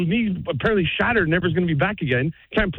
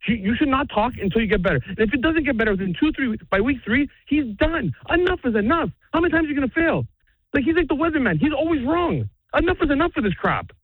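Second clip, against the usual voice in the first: heated rant; 3 semitones higher than usual. Real, not acted. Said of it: "that's just my rant".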